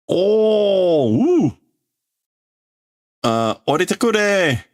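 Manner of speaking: startled teacher. Acted. Teacher startled as the kid yells, high yelping plea. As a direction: yelp and plead to be let down.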